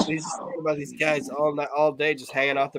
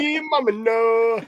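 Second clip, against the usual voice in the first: mock high voice; 11 semitones higher, 4 dB louder, slower than usual. Joining the imitation.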